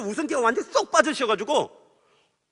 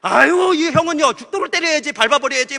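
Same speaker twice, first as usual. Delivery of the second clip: loud, higher, aggrieved protest with a laugh; indignant outburst; 5 semitones higher, 6 dB louder than usual. Retold or imitated. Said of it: "막 그냥 화가 났어요". (억울해서 크게 높여 따지듯이)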